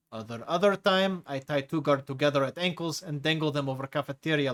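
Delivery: lightly voiced hulking prisoner with a foreign accent; a menacing brute enjoying scaring the new chief; Tigra's heavy accent. Tigra lists misdeeds.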